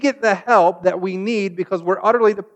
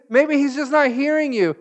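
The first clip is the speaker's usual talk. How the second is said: higher, sarcastic suggestion; mocking; 6 semitones higher than usual. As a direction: needle them with fake concern. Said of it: "he's making fun of them".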